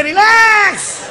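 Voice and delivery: high, slow, drawn-out comic relax; high, slow comic drawl to the friends; stretched-out relax. Acted. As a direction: stretch the word out lazily and carefree.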